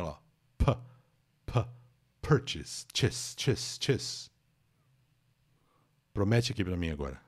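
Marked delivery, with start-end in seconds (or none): 2.2-4.3 "purchase" then a whispered "chase, chase, chase"; syllable drill. Shown as a demonstration. Teacher drills the syllables of "purchase" for students. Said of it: "Sílaba tônica é a primeira".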